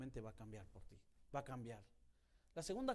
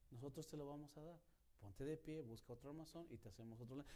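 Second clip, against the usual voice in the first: calm doctor; 5 dB quieter than usual. Retold or imitated. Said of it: "bien tranquilo".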